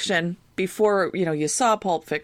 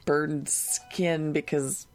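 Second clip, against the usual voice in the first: scarred villain. Acted. Voices Gary Oldman's scarred villain.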